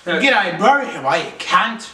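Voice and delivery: put-on Aussie accent, laid on thick for a laugh; mock Aussie accent. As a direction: play the jokey Australian bloke greeting mates. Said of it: "the Aussie accent".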